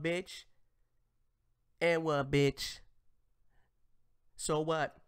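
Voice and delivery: mock defiance. Host mimics her defiant and-what.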